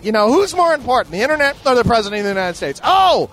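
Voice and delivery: high, loud crowing; hammed-up victorious outburst; triumphant gloating. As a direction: crow over a winning card, mock-bragging. Triumphant retort in mock argument.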